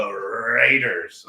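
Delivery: slow, drawn-out "Raiders"; mock announcement. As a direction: stretch the team name out playfully. Mock-announces the stadium's team.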